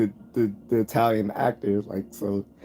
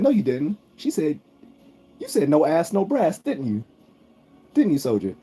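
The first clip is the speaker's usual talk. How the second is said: mock drill sergeant; 7 semitones higher than usual. Drill sergeant accusing soldier.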